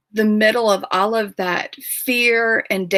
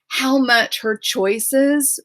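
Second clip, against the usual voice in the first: tearful; 4 semitones higher, much slower than usual. Real, not acted. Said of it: "oh gosh, I'm crying".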